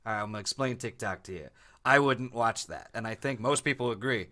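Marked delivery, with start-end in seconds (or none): 0.0-1.5 himself as presenter. Acted. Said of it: "if I came on".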